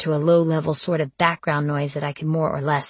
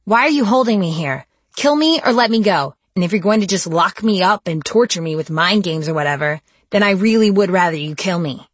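angry outburst; 3 semitones higher, 6 dB louder than usual. Acted. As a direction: shout it, scared and furious. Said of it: "all of my pent-up fear bursting out as anger".

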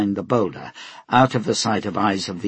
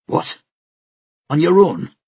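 stunned; 8 semitones higher, 6 dB louder than usual. Acted. Pugh stunned.

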